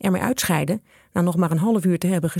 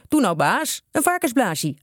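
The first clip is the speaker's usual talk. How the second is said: higher, coaxing plea; pleading; 6 semitones higher than usual. A narrator's reading. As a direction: beg the boss like eager boys. Gang begs the butcher. (smekend, met hogere stem)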